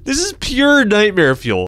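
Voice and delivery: very high, slow squeal of nightmare fuel; squeaky repeat. Shown as a demonstration. Streamer repeating his line in a high squeak. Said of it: "repeats line in squeaky voice".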